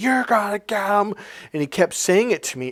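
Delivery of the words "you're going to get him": put-on furious shout, pitched up. Retelling how a guy kept yelling at him, imitating an angry yell. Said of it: "he's just yelling at me".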